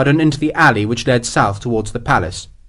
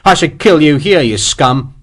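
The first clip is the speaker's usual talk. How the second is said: angry; 3 semitones higher, 4 dB louder than usual. Acted. Soldier threatens captive traitor.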